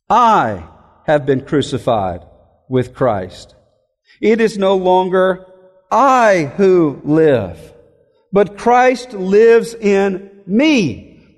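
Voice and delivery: very slow, phrase by phrase with pauses; slow solemn reading. Shown as a demonstration. Preacher calls attention to the verse, slowly and weighty. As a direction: read it out word by word, letting it sink in. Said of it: "a flashing light calling for our attention".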